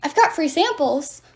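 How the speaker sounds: giant's mocking bellow. A narrator's reading. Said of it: "Polybides bellowed".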